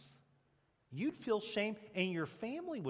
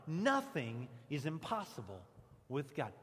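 call-and-response repeat; 5 semitones lower than usual. Shown as a demonstration. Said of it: "One more time".

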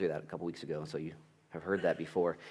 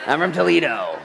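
louder, higher, laughing through it; laughing mock excuse; 8 semitones higher, 11 dB louder than usual. Pastor mocking a lame excuse, laughing louder. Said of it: "excuse making".

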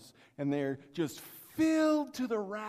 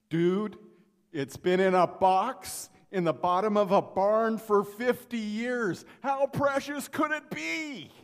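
louder, higher, exasperated at the screen; 5 semitones higher, 9 dB louder than usual. Real, not acted. Preacher yelling at the seller on TV, louder. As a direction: push back loud in disbelief.

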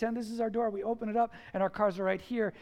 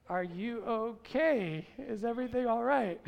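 gentle concern. Retold or imitated. Neighbor checking on a yelling father, gentle concern. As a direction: ease into the question, lightly voiced. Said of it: "He was very gentle with me".

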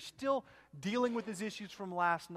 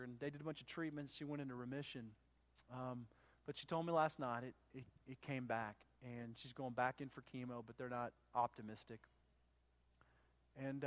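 soft, hushed, nervous retelling; nervous and quiet; 4 semitones lower, 6 dB quieter than usual. Retold or imitated. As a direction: voice the scared young man softly. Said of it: "he's shaking, really nervous".

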